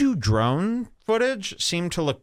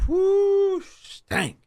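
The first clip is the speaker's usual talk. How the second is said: disgusted whoo. Retold or imitated. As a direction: recoil from the stink with a high whoop. Reacting to bad breath.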